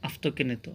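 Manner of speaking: "আপ্তকেনিত" said with f in place of p; f before t. Shown as a demonstration. Teacher concluding the rule for learners, "আপ্তকেনিত" with f. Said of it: "সেই জন্য এখানে উচ্চারণ হবে".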